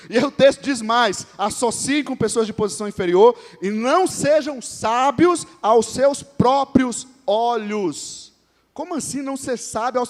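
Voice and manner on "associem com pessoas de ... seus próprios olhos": solemn, measured reading of the verse; scripture reading. Acted. Pastor reading the verse to the church, solemn and slow. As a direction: read it as holy text, slowing at the end.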